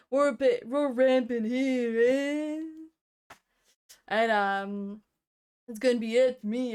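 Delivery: lazy goblin tagging every line with eh; stoned goblin. Pretend. Lightly voiced stoned goblin narrating his game turn. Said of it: "I did say I wanted to do a lower pitch voice".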